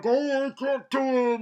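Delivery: high, whiny imitation of a sad hero; mock sad. Reviewer imitating sad Barry before a pep talk, mock sad. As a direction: whine it in mock despair. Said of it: "Barry is all sad now".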